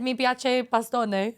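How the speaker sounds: slow Italian line, laughing through it; slow giggly Italian. Retold or imitated. To a waiter, slow giggly Italian phrase. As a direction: say it slowly, giggling. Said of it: "I said".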